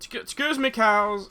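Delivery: squeaky polite excuse me; high polite voice. Pretend. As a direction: pipe up politely. Squeezing past cows.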